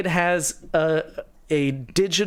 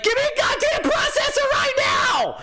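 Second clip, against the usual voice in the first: much higher, half-laughing shout; mock yell. Customer at Best Buy demanding a processor, shouting. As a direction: demand it like a madman at the counter. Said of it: "I'm like".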